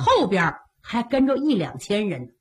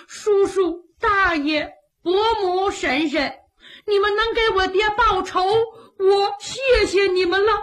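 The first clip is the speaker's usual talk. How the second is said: put-on higher, teary little boy thanking elders; tearful child; 8 semitones higher than usual. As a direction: thank them through tears like a child. Orphan thanks kneeling, tearful.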